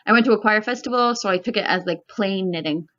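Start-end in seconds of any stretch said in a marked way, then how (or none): 1.2-2.9 talking with fiber in mouth; words round a bit of fiber; mouth full. Real, not acted. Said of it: "Sorry, I have fiber in my mouth".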